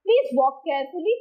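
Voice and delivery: slow, deliberate weight on "carefully"; stress on carefully. Shown as a demonstration. Teacher showing adverbs take stress, stressing "carefully". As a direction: give "carefully" extra stress, taking it slowly. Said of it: "adverbs are also given more stress".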